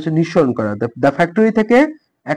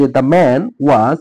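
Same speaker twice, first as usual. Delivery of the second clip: slow example reading; much slower than usual. Shown as a demonstration. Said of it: "উদাহরণ আছে এখানে যে".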